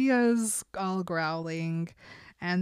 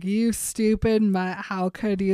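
mock furious; 5 dB louder than usual. Bella yelling at Jacob in loud mock fury. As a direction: spit it out like an outraged mother.

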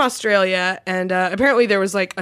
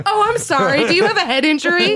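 mock baby talk; 9 semitones higher than usual. Mock baby-talk teasing cohost.

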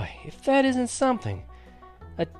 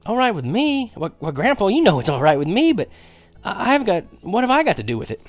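put-on high, stammering boyish surprise; dumbfounded; 10 semitones higher, 4 dB louder than usual. A narrator's reading. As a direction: stumble over the words, astonished. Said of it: "I was dumbfounded".

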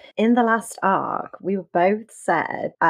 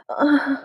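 higher gasped "uh"; shivering groan; 7 semitones higher, 3 dB louder than usual. Shown as a demonstration. Co-host guessing how sick Usagi would sound, shivering groan. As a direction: attempt at a slumping, shivering noise. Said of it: "how would that sound".

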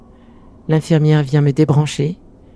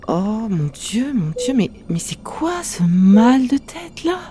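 alarmed; 6 semitones higher, slower than usual. Real, not acted. Sudden headache during chemo.

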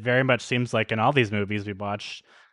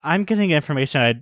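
exasperated quick mock; 3 semitones higher, 6 dB louder than usual. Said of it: "I like how Charlotte".

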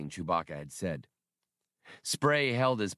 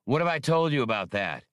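menacing; 5 semitones higher, 5 dB louder than usual. A narrator's reading. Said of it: "Han asked the Silji menacingly".

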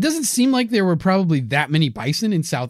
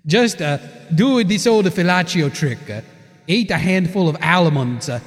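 put-on Italian accent. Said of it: "thick Italian accent".

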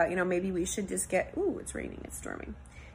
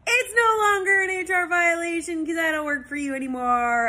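choked-up, higher and louder; tearful; 10 semitones higher, 5 dB louder than usual. Retold or imitated. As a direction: voice cracking with emotion. Emotional retold goodbye to Bob.

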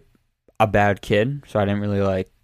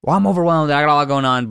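snippy; 4 semitones higher, 3 dB louder, faster than usual. Retold or imitated. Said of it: "she'll just get snippy really quick".

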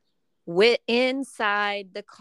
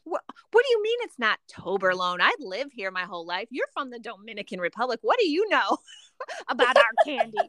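retold sassy comeback; 3 semitones higher than usual. Insisting to Ramel she knows her candy, sassy. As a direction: argue back with cheeky mock outrage. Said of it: "getting all sassy".

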